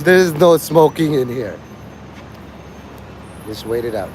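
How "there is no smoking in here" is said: lightly put-on Nigerian accent. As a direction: imitate a Nigerian official laying down a rule. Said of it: "before the Nigerian says".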